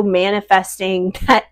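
laughing mid-sentence; a light laugh breaking through; kind gentle laugh. Real, not acted. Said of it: "I'm sorry. I'm not laughing at you guys".

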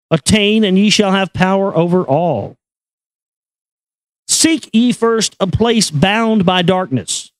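normal talking voice

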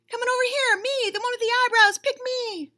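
high, pleading pick me; begging kid. Retold or imitated. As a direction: wave a hand and beg to be chosen.

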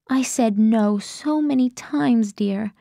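slow, hushed letter reading; Grace's letter voice. Acted. Narrator voicing Grace's letter slowly.

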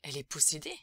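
loud, alarmed question. A narrator's reading. Father asks medium about his daughter, alarmed. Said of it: "complètement affolé".

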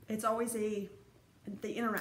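speaking through hiccups; words broken by a hiccup. Real, not acted. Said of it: "I got the hiccups".

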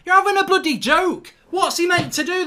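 a fan exploding at a penalty decision; furious outburst. Real, not acted. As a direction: blurt it out in disbelieving fury.

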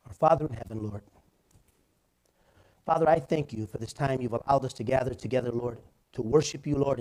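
earnest closing prayer. Acted. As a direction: pastor closes the service in prayer.

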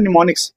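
निमोनिक्स begun with n, the m silent; teacher models निमोनिक्स with silent m; silent m pronunciation. Shown as a demonstration. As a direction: model निमोनिक्स as nim-o-nicks for the class. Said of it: "एम silent होता है".

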